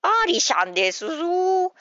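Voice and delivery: impression voice. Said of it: "限定取り下ろしモノマネ".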